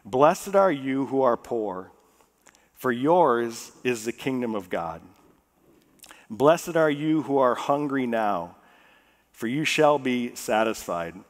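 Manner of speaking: slow, measured reading of scripture. Acted. Preacher reading the Beatitudes to the congregation, slow and measured. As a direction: read each line slowly and deliberately. Reads scripture slowly aloud.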